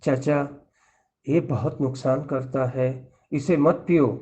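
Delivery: put-on soft and low, kindly urging the old man; speaking softly to the old uncle, with loving concern; gentle, loving advice. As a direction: coax him tenderly, like family. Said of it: "بہت پیار سے کہا".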